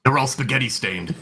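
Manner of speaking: words broken by giggles; talking through laughter; laughing. Real, not acted. Player still giggling at joke.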